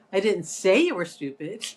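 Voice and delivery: you stressed and rising. Shown as a demonstration. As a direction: point it at you. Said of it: "emphasizing all the different words".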